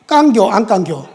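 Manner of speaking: laughing Chungcheong short form; 충청도 사투리로 웃으며; Chungcheong dialect. Shown as a demonstration. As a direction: chuckle through the Chungcheong 깐겨. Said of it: "충청도 말로 딱 줄여서".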